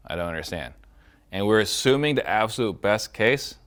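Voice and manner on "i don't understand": soft, low puzzlement; feigned confusion. Shown as a demonstration. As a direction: drop low and quiet, mock puzzled.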